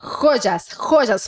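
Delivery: "Joyas" with a hard rasped J like kh; strong J. Shown as a demonstration. Teacher stressing the strong J in joyas.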